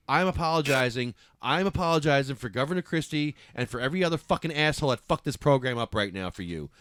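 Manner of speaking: angry, loud apology on someone else's behalf; mad. Real, not acted. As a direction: apologize furiously, hammering the words out. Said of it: "I'm sorry for getting mad".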